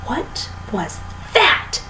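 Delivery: breathless hushed gasp; hushed, slow, almost whispered alarm; a startled breathy cry; cried out. A narrator's reading. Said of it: "cried Missus Twit".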